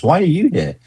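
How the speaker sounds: high-pitched mock astonishment; astonished question. Traveller hearing a British voice abroad, astonished. Imagined meeting a Brit abroad.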